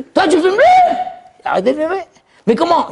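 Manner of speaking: high, loud astonished question; high astonished friend; amazed friend. Acted. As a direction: act stunned disbelief.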